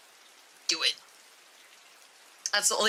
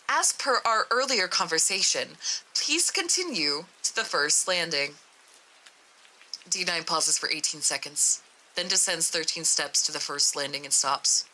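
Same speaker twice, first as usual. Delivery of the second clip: even, measured report reading; matter-of-fact document narration; story narration; 5 semitones lower than usual. A narrator's reading. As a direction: read it like a formal case log.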